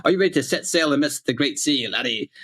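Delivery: pirate captain asking the crew. Shown as a demonstration. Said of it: "old English pirate voice here".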